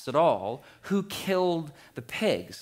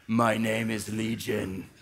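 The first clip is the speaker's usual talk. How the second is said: low, slow menacing growl; deep demon voice; 5 semitones lower than usual. Acted. Preacher voicing the demon Legion, deep and slow. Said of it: "I need, like, a man voice there".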